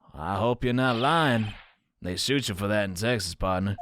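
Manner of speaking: badly faked Texas cowboy, gently threatening; cowboy accent. Cowboy officer warning against lying, cowboy accent. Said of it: "My cowboy accent sucks".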